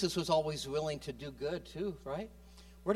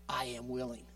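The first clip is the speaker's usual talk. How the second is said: soft assurance of God; 3 semitones lower, 4 dB quieter than usual. Pretend. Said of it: "a voice that comes back to you saying".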